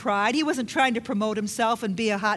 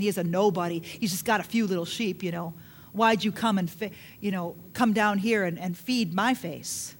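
lower, sneering brother's voice; scornful older brother; 4 semitones lower than usual. Retold or imitated. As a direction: belittle him like a jealous sibling. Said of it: "the spirit of condemnation speaking".

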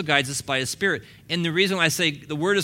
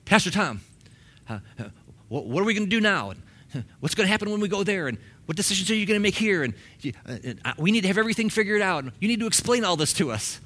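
anxious church members; 5 semitones higher, faster than usual. Retold or imitated. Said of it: "they would come to me and go".

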